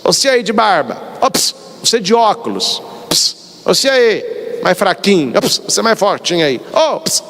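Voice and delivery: offhand "ô, ps" call to a nameless stranger; calling strangers with a psst. Retold or imitated. A preacher mimics calling out to strangers, offhand psst calls. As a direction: hiss "ps" to get someone's attention without knowing their name. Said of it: "Jesus não fala assim com a gente".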